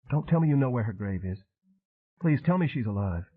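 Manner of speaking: hoping against hope; pleading young woman. Acted. Arden begging Train for news, pleading.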